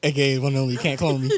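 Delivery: quick echo of a nickname tagline; rapid-fire. Retold or imitated. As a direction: rattle the tagline off fast. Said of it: "Why you say it so fast?".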